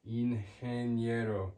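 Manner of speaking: "Ingeniero" with the g as an English h; slow "Ingeniero", g breathed like h; soft g. Shown as a demonstration. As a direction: say "Ingeniero" as een-hen-YEH-ro. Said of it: "like an English H would make".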